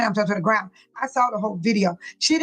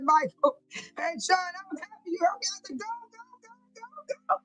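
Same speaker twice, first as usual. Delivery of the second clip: excited retelling; 6 semitones higher, 8 dB quieter than usual. Retold or imitated.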